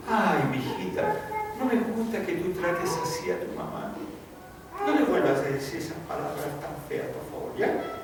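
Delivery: half-hearted, coaxing telling-off; mild reproach. Acted. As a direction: gently chide a daughter, with little force. Lenient father mildly correcting his daughter.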